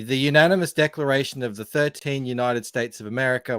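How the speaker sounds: reading in a plain General Australian accent. Shown as a demonstration. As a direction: read it in everyday Australian. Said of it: "my accent here, uh, which is called the General Australian Accent".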